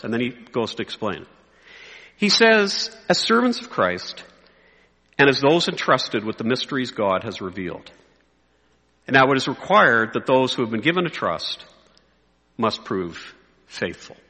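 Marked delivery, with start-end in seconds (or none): 3.1-14.2 measured scripture reading with long pauses; slow reading. Shown as a demonstration. Preacher reading Paul's words to pastors, slowly. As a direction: let each phrase settle, sinking lower. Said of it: "I'm gonna read it slowly".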